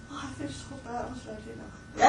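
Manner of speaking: softly voiced worried self-reproach; mock self-blame. Teacher fretting over a crying student, mildly acted self-blame. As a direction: act out feeling bad, quietly. Voicing a teacher blaming themselves.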